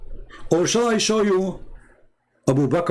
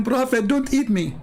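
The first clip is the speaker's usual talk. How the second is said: mock goat voice; 7 semitones higher than usual. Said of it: "she said to him".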